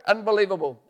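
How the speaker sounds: loud amazed exclamation; excited exclaim. Acted. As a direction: cry it out in amazement. Repeated in wonder.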